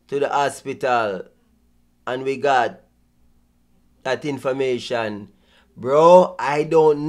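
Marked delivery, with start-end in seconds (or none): 0.1-5.3 imitating his slow pausing delivery; slow, with long pauses between phrases; slow dramatic pauses. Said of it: "how to pause, how to slow down".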